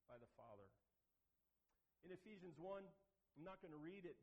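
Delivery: normal talking voice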